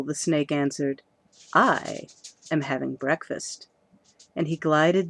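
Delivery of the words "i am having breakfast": talking through a mouthful; mouth full. Acted. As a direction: say it round a swallowed egg. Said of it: "Speaking with his mouth full".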